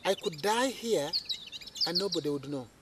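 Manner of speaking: muttered low to himself, softly; quiet to himself. Retold or imitated. Alone at night at the station, softly to himself. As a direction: say it under your breath, uneasy. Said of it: "I said to myself".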